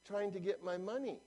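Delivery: lightly voiced flustered customer; lady customer. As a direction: meekly explain yourself at the speaker. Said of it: "She says".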